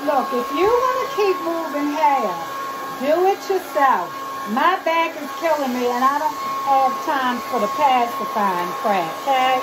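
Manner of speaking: fed-up and sharp; angry. Real, not acted. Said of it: "Excuse the angry woman in the back".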